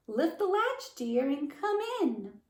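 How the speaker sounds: the wolf putting on a grandma voice; wolf faking Grandmother's voice to lure the girl; sounding like Grandmother. Acted. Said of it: "trying to sound like Grandmother".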